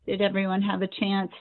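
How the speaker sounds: muffled phone audio, like through a wall. Real, not acted. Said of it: "It's muffled".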